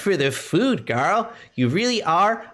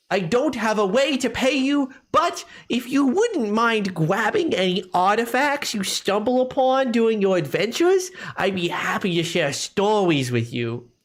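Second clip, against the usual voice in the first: put-on childlike, babyish baby voice. Voicing a traveling historian asking adventurers for artifacts: baby voice. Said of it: "little bit more of a baby voice".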